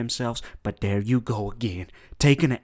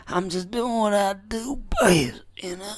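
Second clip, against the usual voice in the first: whispered boast; 10 semitones higher than usual. Acted. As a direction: lean in and whisper it slyly. Whispered boast inside persona.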